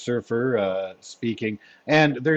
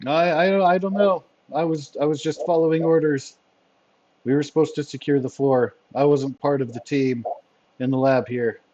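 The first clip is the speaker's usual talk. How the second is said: higher-pitched, stammering nervous excuses; scared henchman; 4 semitones higher than usual. Acted. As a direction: play a captured henchman defending himself. Henchman answers interrogation, scared.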